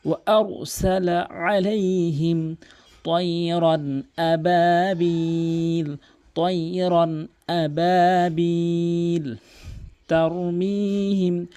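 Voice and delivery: slow, drawn-out melodic tajweed chant; Quran recitation. Shown as a demonstration. Teacher reciting the verse for students, slow melodic chant. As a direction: chant each word long and measured.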